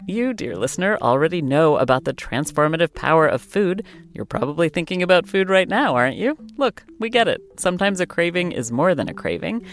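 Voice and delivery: ad read. Acted. Host reads sponsor ad.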